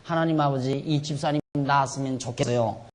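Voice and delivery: soft, modest prayer for a sick deacon; demonstrated prayer. Retold or imitated. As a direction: pray quietly, as a simple wish. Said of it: "그렇게 기도를 해요". (나직하게 바라는 기도)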